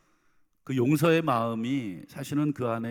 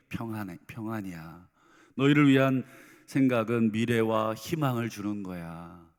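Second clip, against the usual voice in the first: tender reassurance; 3 semitones lower than usual. Acted. Angry God suddenly speaks peace.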